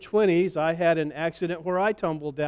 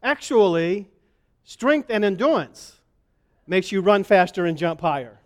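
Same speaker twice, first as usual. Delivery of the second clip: lightly voiced little boy; a hint of a small boy explaining. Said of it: "in his little boy voice".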